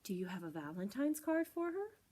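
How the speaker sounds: lightly voiced skunk lady; Miss Skunk voice. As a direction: ask with a tilted head. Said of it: "Miss Skunk cocked her head".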